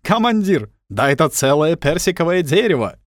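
put-on loud, high teasing Armenian accent; mock Armenian accent. A narrator's reading. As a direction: shout it in a joking Armenian accent. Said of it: "Он намеренно коверкал русскую речь". (громко, с шутливым армянским акцентом)

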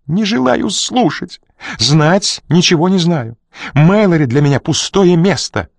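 высоко, громко и медленно, в истерике; выкрикивать, заглушая его слова; бессвязный выкрик. A narrator's reading. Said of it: "бессвязно выкрикивая". (Рита в панике кричит Коридону)

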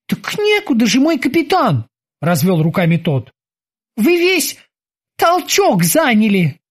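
high, eager sailor's voice; squeaky dutiful boatswain. Acted. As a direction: report to the captain like a keen young sailor. Boatswain Kiki answers.

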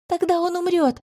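high, anguished cry; desperate moan. A narrator's reading. Healer cries out that the lieutenant will die, high and anguished. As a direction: wail in despair. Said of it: "отчаянно простонала я".

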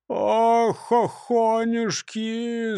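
slow drawn-out sigh. Acted. Hungry robber sighs about a joyless Easter. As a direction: moan it slowly and wearily. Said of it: "снова вздохнул Крендель".

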